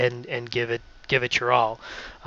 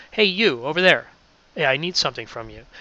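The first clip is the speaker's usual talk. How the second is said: with hand gestures; faster than usual. Shown as a demonstration. Teacher showing how gestures sound on radio. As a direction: talk with your hands so it lives. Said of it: "You can hear that in my hand gestures".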